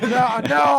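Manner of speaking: loud quick no, no; emphatic denial. Real, not acted. Denying to friends he reprimanded anyone, loud emphatic no. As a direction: cut off the accusation firmly.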